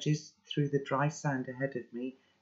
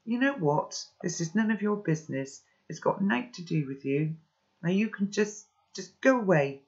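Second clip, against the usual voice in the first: higher-pitched, mildly heated brush-off; defensive, voice raised in pitch; upset dismissal; 5 semitones higher than usual. Acted. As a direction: send them away, touched on a nerve. Hurt boy tells narrator off.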